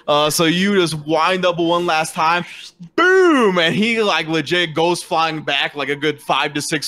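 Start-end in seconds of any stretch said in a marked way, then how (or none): 3.0-3.6 loud, high drawn-out "boom"; booming impact sound. Acted. Game master lands the last slap, explosive. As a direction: punch out the blow as a sound effect.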